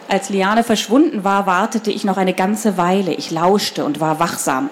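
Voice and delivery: put-on children's book read aloud, measured and clear; storyteller's even delivery with lightly voiced dialogue; story narration. A narrator's reading. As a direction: read the story to a young audience.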